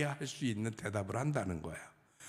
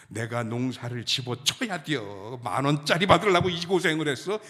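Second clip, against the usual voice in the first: mock indignant grandma; 7 dB louder than usual. Preacher voicing a grandma insulted by the offer, mock indignant and building louder. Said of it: "이렇게 얘기한다는 거야".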